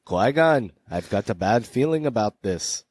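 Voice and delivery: attempted Scottish-British film-hero accent; lightly hammed-up actor impression in a Scottish accent; Ewan McGregor. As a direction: put on a mock Scottish accent. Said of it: "Impressions by Scotty".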